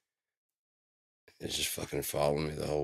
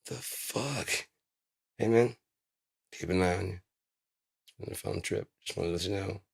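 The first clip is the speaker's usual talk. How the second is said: higher, odd little bird voice; 3 semitones higher than usual. Pretend. The bird thanks the bus driver for the trip in a higher voice.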